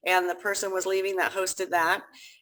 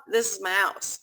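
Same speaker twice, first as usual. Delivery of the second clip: amused, breaking into a laugh; real laugh while talking. Real, not acted. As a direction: laugh through the words. Laughs describing her hot garage.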